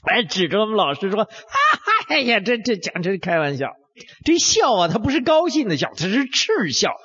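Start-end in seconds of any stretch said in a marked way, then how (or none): 2.1-3.7 scoffing through a laugh; lightly acted jeering crowd, laughing; mocking laugh. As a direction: laugh at him while you speak. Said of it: "还这下还给笑起来了".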